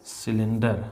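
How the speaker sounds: "सिलेंडर" starting with clear S; pronunciation demo. Shown as a demonstration. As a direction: model "सिलेंडर" with C as S. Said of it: "इसका भी उच्चारण स होगा".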